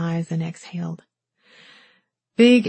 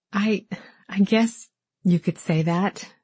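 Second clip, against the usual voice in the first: stammering. Acted.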